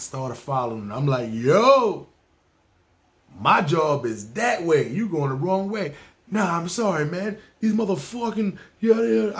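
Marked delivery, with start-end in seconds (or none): 1.3-5.9 mock yell. Narrator yelling at cab driver. 6.3-9.4 cab driver voice. Retold or imitated. Cab driver's excited reply.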